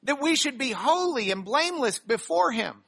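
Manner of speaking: measured reading of the passage to the congregation; scripture reading. Acted. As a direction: read it out like a text from the pulpit. Pastor reads scripture aloud.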